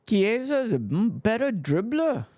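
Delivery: put-on high, quick Scouse accent. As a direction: Liverpool Scouse twang, pushed up high. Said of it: "Trying to do my Scouse accent".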